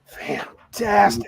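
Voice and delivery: slow, drawn-out exclamation; lingering, awed delight; savored wonder. Acted. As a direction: stretch the word out, savoring the prize. Character receives the long-sought orb.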